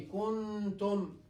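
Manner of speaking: Kuntum with a half-hidden nasal nun; halfway nun. Shown as a demonstration. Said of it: "pronouncing Nun Sakina ... halfway".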